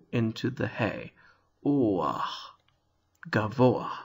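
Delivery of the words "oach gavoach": "Oach" alone, then "Gavoach", o sliding into a; slight glide. Shown as a demonstration. Teacher shows the glide into the hey, slight glide. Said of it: "a bit of a glide".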